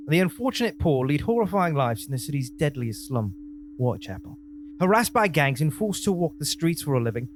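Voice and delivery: synopsis in a put-on Cockney accent. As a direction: read it like a London East Ender. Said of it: "highly obnoxious with that accent of yours".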